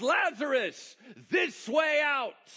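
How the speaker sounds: shrill, very loud, high-pitched preaching shout. Reading a Bible passage aloud, voicing the man who cries out, with a loud shouting cry. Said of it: "he cried out in a loud voice".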